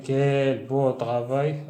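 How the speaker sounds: slow, drawn-out ironic praise; sarcastic praise for a mess; reproachful. Shown as a demonstration. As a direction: say it as a reproach, slowly. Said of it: "تبين le reproche يعني اللوم".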